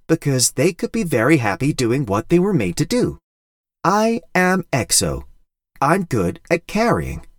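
small robot finding its purpose; little robot voice. Acted. Exo robot's speech.

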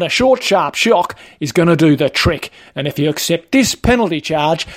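lightly voiced matey enforcer; Wayne, officious trainer. Trainer warning a learner about esky law, officious. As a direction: lay down the law as a petty official.

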